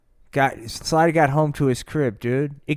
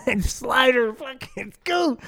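goo attack noise; 9 semitones higher than usual. Acted. Sound effect of goo attack.

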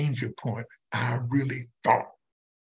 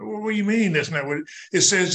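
quick, higher-pitched objection; retold protest; 5 semitones higher, faster than usual. Newcomer protesting to his sponsor, quick mild retold protest. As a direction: object fast, as if caught off guard.

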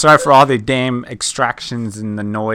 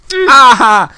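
pained cry; 11 semitones higher, 9 dB louder than usual. Real, not acted. Being pushed, objects to noise.

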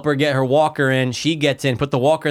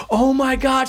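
mom's thrilled squeal; 11 semitones higher, slower than usual. Retold or imitated. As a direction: squeal it like a delighted mom. Mom thrilled about the movie.

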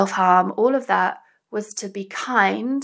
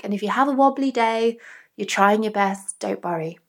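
kind self-talk. Shown as a demonstration. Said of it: "to give you an example".

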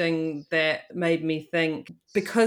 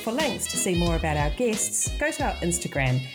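measured, scripted announcer delivery; podcast outro read; 2 semitones higher, 5 dB quieter than usual. Real, not acted. Host signing off to podcast listeners, scripted outro read. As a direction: read the show credits clearly, item by item.

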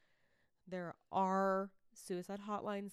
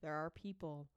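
softer, earnest reassurance; serious, sincere; 2 semitones lower, 4 dB quieter than usual. Real, not acted. Host urging struggling listeners to call the hotline, serious and sincere. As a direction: plead gently and in earnest. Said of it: "This is a serious moment".

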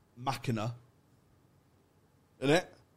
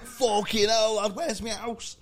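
mock panic; 11 semitones higher, 5 dB louder, slower than usual. Character lost in the future.

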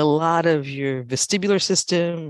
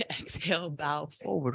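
breathy whisper, almost no voice; whispered cue; 9 dB quieter than usual. Real, not acted. Yoga teacher whispering the exhale cue to the class. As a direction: breathe the word out softly. Soft cue after a laugh.

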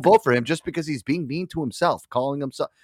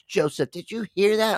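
higher, imitating his mom; 7 semitones higher than usual. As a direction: play his surprised mother. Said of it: "She goes".

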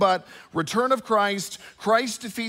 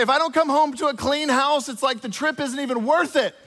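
demanding wife; 5 semitones higher, 3 dB louder than usual. Retold or imitated. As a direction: lean hard on the one request. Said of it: "She's like".

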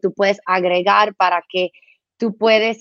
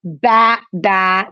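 sheep baa; 2 semitones lower, 3 dB louder than usual. Shown as a demonstration. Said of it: "cómo hace la oveja".

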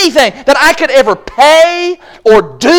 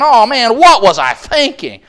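mock regret. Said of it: "these guys saying".

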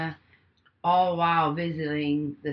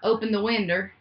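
hammed-up fire alarm, louder and higher; playful fake emergency shout; mock panic shout; 4 semitones higher, 6 dB louder than usual. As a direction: yell it like the house is burning, half joking. Acted panic call, fire in house.

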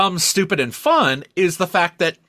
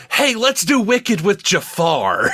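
mock excited pitch; 5 semitones higher, slower than usual. Mock pitch of the Jafar idea.

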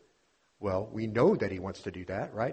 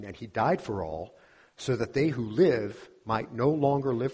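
slow, deliberate scripture reading, rising to louder emphasis; 3 dB louder than usual. Acted. Preacher reading Paul's words to the congregation, slow and solemn. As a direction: read the verses slowly and weightily.

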